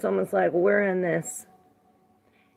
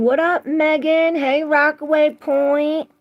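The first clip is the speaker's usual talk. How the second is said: excited greeting; 9 semitones higher, 7 dB louder than usual. Real, not acted. Greeting viewers joining the live.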